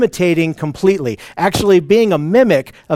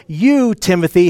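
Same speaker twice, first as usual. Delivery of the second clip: single out the listener with a firm "You"; pointed YOU. Retold or imitated. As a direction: stress "You", then set "Timothy" apart. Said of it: "He's being very specific to".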